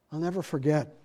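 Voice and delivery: ordinary talk, nothing marked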